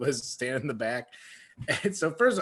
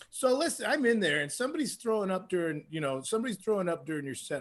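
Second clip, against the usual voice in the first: high, then softer and faster, confiding; confiding bar owner; 4 semitones higher, 4 dB quieter, faster than usual. Retold or imitated. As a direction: lean in and tell it quickly. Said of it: "one of them comes up and goes".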